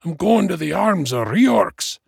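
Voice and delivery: high, loud, testy dwarf; irritable. A narrator's reading. Dying dwarf explaining himself to his friend, irritated. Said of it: "replied the dwarf irritably".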